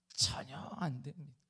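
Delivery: slow, breathless whispered plea; despairing whisper. Retold or imitated. Moses whispering to God that the people are hopeless. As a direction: whisper it like a man at the end of his rope.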